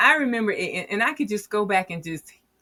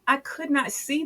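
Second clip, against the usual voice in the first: laughing; 8 semitones higher, 8 dB louder, faster than usual. Real, not acted. Laughing while explaining.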